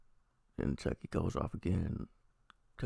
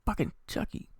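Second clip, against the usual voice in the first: drawn-out, raised-pitch retold rant; mock outraged outburst; 12 semitones higher, 4 dB louder than usual. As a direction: imitate going off, high and slow. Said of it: "he goes off again".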